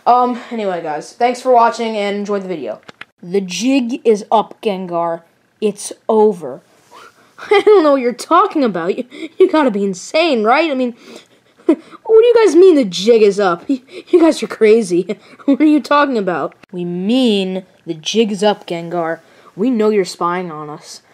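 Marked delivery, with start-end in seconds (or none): 3.2-6.6 slow menacing accuser; slow villain confrontation. Acted. Hero cornering Gengar, slow and grave. 7.4-16.6 a hint of a giggly liar playing dumb; sly innocent Gengar. Gengar denying he spied, giggling innocence. 16.7-21.0 slow menacing accuser; slow villain confrontation. Acted. Hero cornering Gengar, slow and grave.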